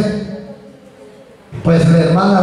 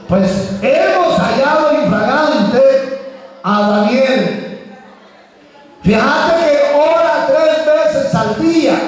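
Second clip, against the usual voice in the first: higher, tattling voice; sly accusers; 9 semitones higher than usual. Acted. Accusers telling the king about Daniel in a higher tattling voice.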